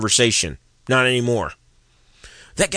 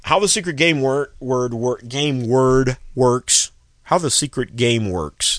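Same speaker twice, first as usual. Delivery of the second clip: tongue-tied from a numb mouth; stumbling words through a numb mouth; slower than usual. Real, not acted. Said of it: "now my mouth won't work".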